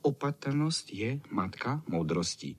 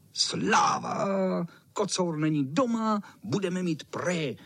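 cheering; 8 semitones higher than usual. Acted. Boys cheer that the cat isn't home. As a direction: whoop with joy, the cat is gone. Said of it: "volali myši".

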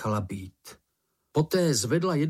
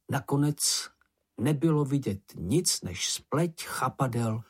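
usual speaking voice

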